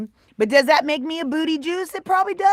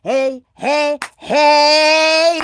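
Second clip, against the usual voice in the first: calling out; 3 semitones higher, 7 dB louder, much slower than usual. Real, not acted. Hyped calling to viewer.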